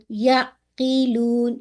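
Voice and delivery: یعقلون with the ع stopped under pressure, like a hamza; wrong hard ain. Shown as a demonstration. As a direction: clip the ع in یعقلون into a stop. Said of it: "شدہ کیسے ہو جائے گا جب میں اس کو ایسے پڑھوں". (یعقلون میں عین کو شدت سے روک کر، غلط)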